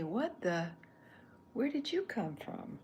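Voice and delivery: high, loud startled take; what the, then a high loud where did you come from; surprised Chuck. Pretend. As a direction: try the line as a startled double take. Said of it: "He could say".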